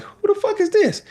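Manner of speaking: high, rough phone pickup; mock rude answer. To an unknown caller, high annoyed.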